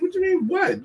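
way up high, incredulous; mock-outraged repeat of her what; husband mocks his own baffled reaction; exasperated disbelief. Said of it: "I'm like".

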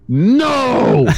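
high, loud mock scream of no; retold scream. Customer screaming a refusal at the chat agent, high loud mock scream. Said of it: "I screamed".

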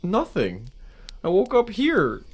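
lightly voiced panicked man; distressed cadaver. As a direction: beg to be believed.

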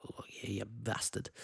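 lightly voiced seedy Yorkshire growl; low, sleazy mock insult; a hint of Sean Bean sneering. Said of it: "He say it in such a seedy way".

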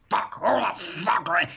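stretched-out retold screaming; mock angry yelling. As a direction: imitate a man cursing in fury. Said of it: "He's going around screaming".

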